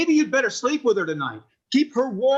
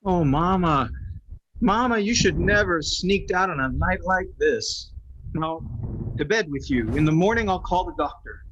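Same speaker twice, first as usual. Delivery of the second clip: tender; 5 semitones lower than usual. Acted. Husband fusses over his mother.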